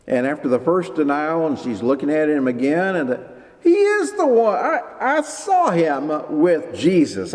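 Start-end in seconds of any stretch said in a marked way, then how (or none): 3.6-7.3 put-on high, insistent accusing girl's voice; servant girl accusing. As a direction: point at Peter like the servant girl who recognizes him.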